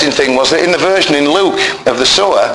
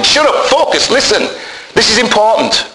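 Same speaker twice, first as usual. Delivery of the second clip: higher, urgent call to listen; commanding attention; 6 semitones higher than usual. Retold or imitated. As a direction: grab the crowd's attention. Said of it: "He's bringing their attention".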